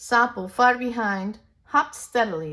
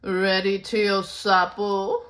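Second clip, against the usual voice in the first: louder, slow haughty question; proud challenge; 5 dB louder, slower than usual. Acted. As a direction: look down on him, smug. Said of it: "puffing his chest".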